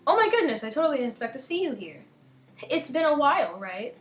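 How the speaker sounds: a chirpy schoolgirl greeting; Monica voice. Acted. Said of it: "what voice I gave to Monica".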